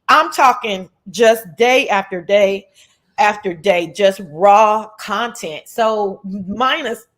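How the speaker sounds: hiccuping between words; with hiccups. Real, not acted. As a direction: talk through hiccups. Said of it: "y'all got the hiccups".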